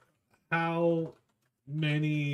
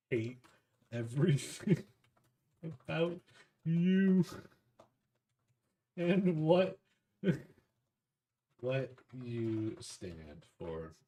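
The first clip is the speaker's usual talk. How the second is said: laughing through insult; 3 semitones higher, slower than usual. Real, not acted. Player insults Amelia, giggling.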